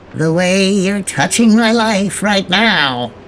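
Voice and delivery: teasing, sardonic, sarcastic tone. She repeats a romantic line, mocking both the other speaker and herself. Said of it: "(mocking both AJ and herself)".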